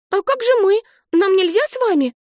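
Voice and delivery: put-on a small girl afraid of being left; exclaiming little girl. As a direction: Olive exclaiming to her aunt, high and alarmed. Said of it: "воскликнула сестрёнка".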